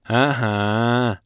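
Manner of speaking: drawn-out, pleased yes; joyful agreement. A narrator's reading. Bald elf agreeing with the sorceress, joyful. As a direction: agree happily. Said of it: "столь же радостно согласился".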